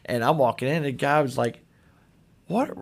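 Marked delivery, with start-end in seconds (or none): 2.5-2.7 like you can't believe what you just saw; amazed disbelief. Retold or imitated. Amazed guy outside Kroger.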